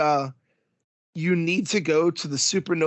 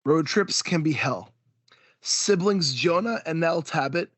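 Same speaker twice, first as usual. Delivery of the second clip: book blurb reading. Acted. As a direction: read it like a trailer.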